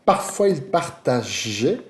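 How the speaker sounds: Parfois il partageait read slowly in French. Shown as a demonstration. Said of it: "Que tá aqui".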